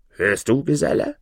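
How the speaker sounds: light call to a companion. Acted. Judge alerting the devil to the curse, mild call. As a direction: call over with a rising question. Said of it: "rief der Richter dem Teufel zu".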